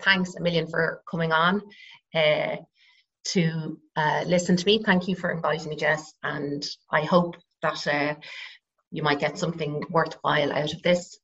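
husky with a frog in the throat; croaky voice. Real, not acted. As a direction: talk with a slightly croaky throat. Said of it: "Sorry for the croaky voice".

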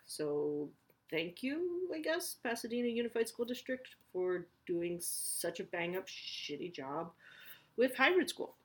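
slow, dry mock gratitude; sarcastic thanks. Real, not acted. Mom mock-thanking the school district, slow and sarcastic. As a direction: drag out the thanks with heavy irony.

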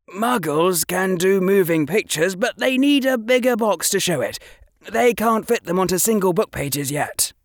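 a hint of a keen boy showing off; Harry explaining muggle pictures to Draco; young Harry. Harry voiced in reading.

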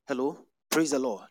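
loud call to the crowd; loud call to the congregation. Real, not acted. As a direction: call out to the back rows. Calling out to the congregation.

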